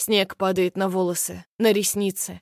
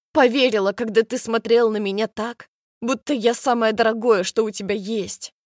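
angry heartbroken outburst; 2 semitones higher, 3 dB louder than usual. Acted. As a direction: throw each betrayal back at him. Heartbroken girl accuses him. (гневно, со слезами, всё громче)

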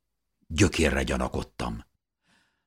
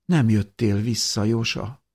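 higher-pitched gentle question; soft ringing voice; 6 semitones higher than usual. A narrator's reading. Mikál asks Jósa why he stayed away, softly. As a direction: ask it gently, close to the ear. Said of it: "csengett Mikál lágy hangja".

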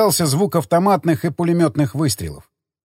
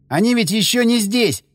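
hysterical laughing; 7 semitones higher than usual. Acted. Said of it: "ещё сильнее расхохотался он".

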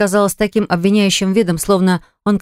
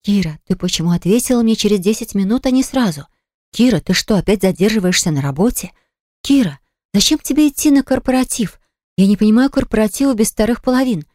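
higher, needling imitation of a jealous man; mock-jealous nagging, a touch higher; mocking his jealous questions; 4 semitones higher than usual. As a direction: parrot his nagging to show how petty it was. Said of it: "помню твои закидоны".

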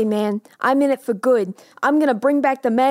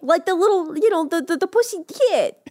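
put-on a light New York accent, pitched up; a lightly voiced New York guy explaining, pitched up. Construction worker to doctor, light New York accent. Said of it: "He's got a New York accent".

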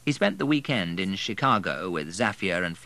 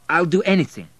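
eager plea; 10 semitones higher, 9 dB louder than usual. A narrator's reading.

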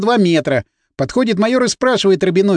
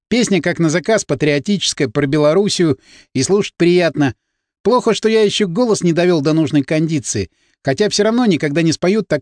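ordinary delivery

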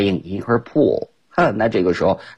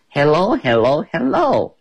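calling out; 6 semitones higher than usual. Acted. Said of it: "she shouted to Ted".

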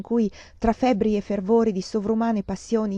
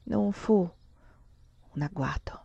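whisper; 6 dB quieter than usual. A narrator's reading. Narratore ripete sussurrando.

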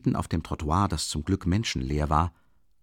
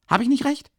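higher, louder, stress on nicht; scolding; 6 dB louder than usual. Acted. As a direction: demand they agree, nicht rising. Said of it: "schimpfte Rasumichin".

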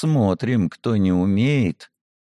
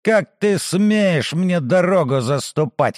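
put-on arrogant drunken noble; 4 semitones higher than usual. Drunk noble insults hero.

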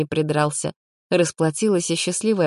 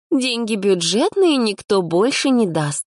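slow monotone mimicry of a bore; girl mimicking her partner's tedious nagging; droning, boring tone; 6 semitones higher, slower than usual. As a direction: drone it out like a dull lecture. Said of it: "нудным тоном продолжила".

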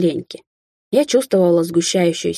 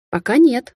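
curt retort; 6 semitones higher, slower than usual. Acted. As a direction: cut him off sharply. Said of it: "отрезала".

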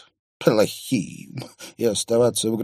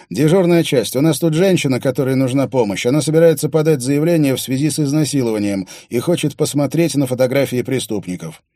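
brisk, loud phone voice of a desk cop; duty officer voice; 3 semitones higher, 6 dB louder, faster than usual. Acted. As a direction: rattle off the report fast.

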